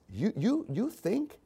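soft, menacing whisper-like voice; soft, menacing Satan voice; sinister Satan. Retold or imitated. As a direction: hiss doubt into his ear quietly. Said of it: "Satan literally says to Jesus".

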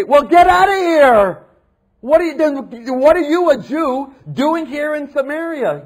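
high, loud, scornful outburst; imagined angry reply she never gave; mock angry retort. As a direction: snap it like an offended rebuff. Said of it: "She doesn't say".

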